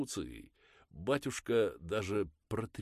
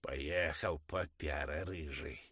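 mild grumble; slower than usual. Acted. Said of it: "проворчала она недовольно".

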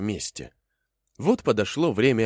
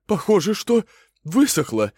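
possum answering; 10 semitones higher, 6 dB louder than usual. Acted. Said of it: "говорит опоссум".

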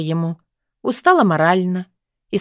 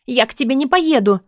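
frightened protest; 5 semitones higher than usual. A narrator's reading. She resists being dragged.

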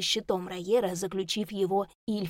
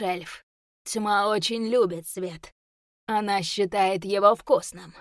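menacing demon voice, louder; 3 dB louder than usual. Acted. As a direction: gloat over him like a beast. Demon mocks the elf.

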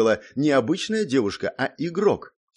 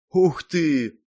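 higher, louder wow; surprised exclamation; 6 semitones higher, 4 dB louder than usual. A narrator's reading. Impressed girl reacts to his story, surprised. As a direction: let the surprise burst out. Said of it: "воскликнула удивлённо".

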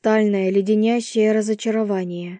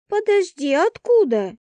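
shocked question; 9 semitones higher than usual. A narrator's reading. Roommate stunned by the news, shocked. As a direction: pitch jumps high in alarm.

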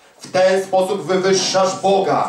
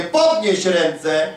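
slow command; much slower than usual. Retold or imitated. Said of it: "mówię".

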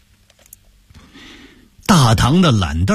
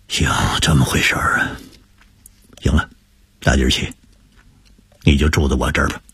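comforting; 3 semitones lower than usual. Acted. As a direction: settle the boy, promise him a home. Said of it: "安慰着说".

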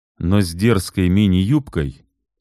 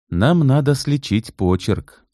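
gentle; 8 semitones higher, slower than usual. Acted. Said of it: "ласково сказал Алексей".

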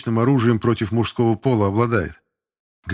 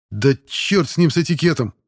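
brash shout; 6 semitones higher, 3 dB louder than usual. Acted. Cadet jumps up, shouting.

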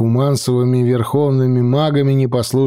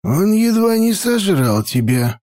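cold; 8 semitones higher than usual. A narrator's reading. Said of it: "холодно заметил старик".

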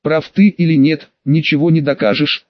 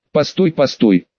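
gurgled while drinking from a pot; gurgling into the pot. Acted. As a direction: talk through gulps of tea. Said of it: "пробулькал я из котелка".

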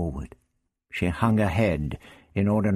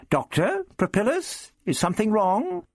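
high voice with questioning rises; Barbara, concerned. Acted. Barbara steps in on two quarrelling old men, concerned. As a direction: lift each name gently into a worried question.

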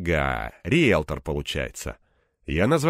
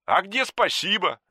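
offended; 12 semitones higher than usual. A narrator's reading. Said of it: "обиделся Антон".

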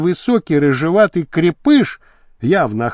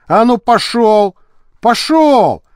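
louder, higher command on each repeat; barked order; 6 semitones higher, 3 dB louder, slower than usual. Acted. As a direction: drive a captive forward, rising on the repeat. Гонит пленника под револьвером. (резкий окрик, приказ)

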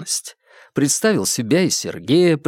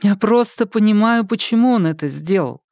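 put-on lightly raised young woman's voice, sincere; Polina, earnest; 8 semitones higher than usual. Polina explaining her ex's choice to Babkin, in a sincere raised voice. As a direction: stress on просто, plainly earnest.

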